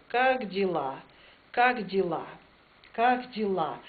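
"Как дела" with the stress on the final A of "дела". Shown as a demonstration. Teacher drills "Как дела" with the stress on the A. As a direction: hit the last A in "дела". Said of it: "Paino meillä on A kohdalla".

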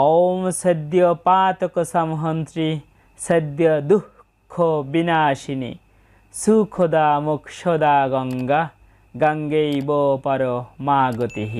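slow, measured spoken recitation; mantra recitation. Shown as a demonstration. Teacher recites the Ganga pranam mantra, slow spoken recitation. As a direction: recite it slowly, syllable by syllable, without singing.

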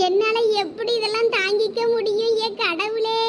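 acted wail to God; crying lament. Distraught mother cries out to God and neighbours, crying lament. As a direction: draw out the final words in despair. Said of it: "எதுக்கு லட்சுமி அக்கா இப்படி அழுது".

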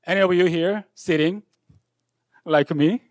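normal talking voice

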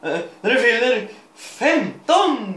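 a bright, exaggerated happy read; cheerfully. Shown as a demonstration. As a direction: really sell how glad she is. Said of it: "Du måste vara jävligt glad om man säger det då".

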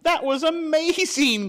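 high, loud burst of delight; thrilled by her friend's courage; delighted cry. Acted. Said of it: "cried Luna".

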